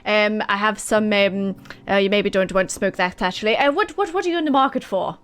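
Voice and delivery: courteous shopkeeper, lightly put on; lightly voiced shopkeeper. DM voices Nick again.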